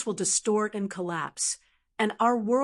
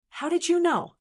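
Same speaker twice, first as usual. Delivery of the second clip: shocked cry; 9 semitones higher than usual. Acted. Shocked dwarf cries out.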